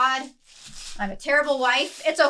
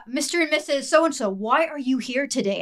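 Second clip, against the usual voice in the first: geriatric voice; 5 semitones higher than usual. Shown as a demonstration. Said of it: "I have to use my geriatric voice".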